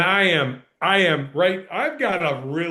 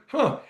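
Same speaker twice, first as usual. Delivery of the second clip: higher mock huh; 6 semitones higher than usual. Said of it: "I just went".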